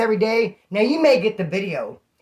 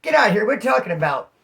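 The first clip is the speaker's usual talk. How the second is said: startled outburst. Retold or imitated. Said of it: "I was like".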